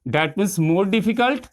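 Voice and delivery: slow teacher emphasis. Shown as a demonstration. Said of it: "teaching the comparative form".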